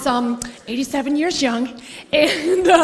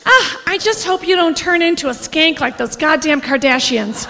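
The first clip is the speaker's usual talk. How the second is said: mom impression. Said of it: "And she goes".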